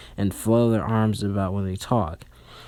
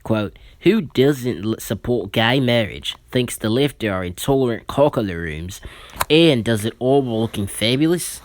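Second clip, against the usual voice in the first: put-on Aussie accent. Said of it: "I'm gonna read it in my Aussie accent".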